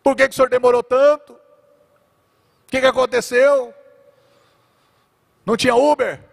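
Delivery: high, loud reproachful lament; mock-tearful complaint to the Lord; weeping sisters. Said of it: "tal, chorando". (lamento das irmãs, agudo e alto)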